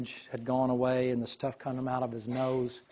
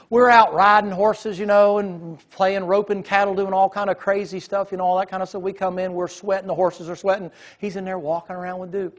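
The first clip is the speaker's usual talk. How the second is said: excited; 6 semitones higher, 8 dB louder than usual. Real, not acted. Excited telling of riding days.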